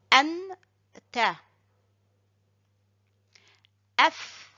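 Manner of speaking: ay, na, kay, fa, an, ta, af, la, ha each spoken alone with pauses between; syllables read one at a time for repetition. Shown as a demonstration. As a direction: model every syllable cleanly, then stop. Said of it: "marquer un petit arrêt après chaque syllabe".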